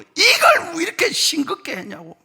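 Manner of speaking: high-pitched mock outburst over food; imitated irritable scolding; angry complaint. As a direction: snap like a cranky husband. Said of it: "화를 내고".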